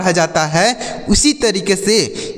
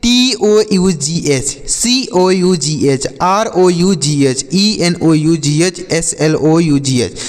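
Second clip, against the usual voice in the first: letters spelled out slowly; slow spelling; slower than usual. Shown as a demonstration. Teacher spells ough words for children, slowly. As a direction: spell each letter deliberately for kids. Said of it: "आप देखिए".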